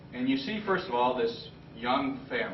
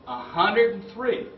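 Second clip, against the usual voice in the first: higher, louder, slow amazed repeat; stunned; 9 semitones higher, 6 dB louder, slower than usual. Real, not acted. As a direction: echo the number in disbelief. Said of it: "I was stunned".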